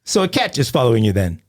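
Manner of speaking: put-on dry British accent, level; British dispatcher. Dispatcher repeating the caller's claim, deadpan British accent.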